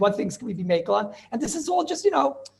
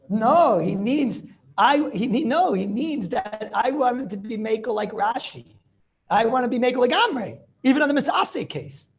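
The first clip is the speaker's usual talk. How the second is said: raised, louder voice pressing the point; arguing someone else's position with force; emphatic insistence; 4 semitones higher, 4 dB louder than usual. Acted. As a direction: insist on it, stretching the opening "No". Insisting on the authority's bold reading.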